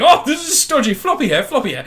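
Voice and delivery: high, mocking voice for stodgy bread; lampooning a snooty shopper; mock posh shopper. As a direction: sneer at the floppy bread in a put-on voice. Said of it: "I was like".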